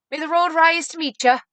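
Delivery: high, loud performed blessing; hammed-up, lilting well-wishing; mock Irish blessing. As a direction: imitate mom putting on an Irish flourish. Mother's Irish blessing, imitated.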